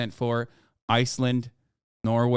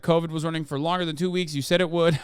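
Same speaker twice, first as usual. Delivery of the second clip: put-on Icelandic accent. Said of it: "it's hard to keep doing the accent".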